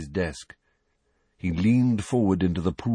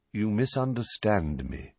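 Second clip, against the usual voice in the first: calm tone; 4 dB quieter than usual. Acted. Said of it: "same calm tone".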